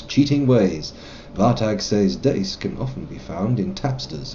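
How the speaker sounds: steady read-aloud of quest text; journal reading. Acted. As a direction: read the quest log evenly.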